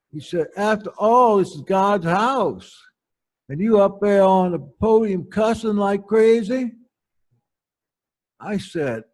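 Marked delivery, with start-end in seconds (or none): 0.6-6.7 a hint of a prim old churchwoman scolding gently; prim church matriarch. Matriarch scolding the preacher, lightly voiced prim older lady.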